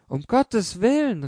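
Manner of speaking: high, slow, anguished plea from the mother; tearful cry. A narrator's reading. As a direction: cry it out as if close to tears. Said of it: "rief die Mutter schon unter Weinen". (die Mutter fleht den Prokuristen weinend an: hoch und langsam)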